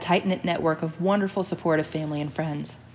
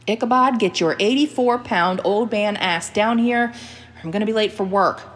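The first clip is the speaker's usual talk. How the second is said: a loud, high call to the dog, a little slowed; said loudly; 5 semitones higher, 6 dB louder than usual. Acted. Jeanette calls the dog down before work, loudly. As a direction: summon the old dog at full volume. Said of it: "she said loudly".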